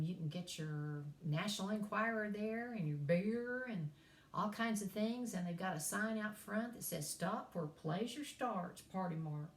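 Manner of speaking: swooping East Tennessee twang; East Tennessee accent. Shown as a demonstration. Professor listing hometown attractions, East Tennessee twang. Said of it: "that's how we talk in East Ridge".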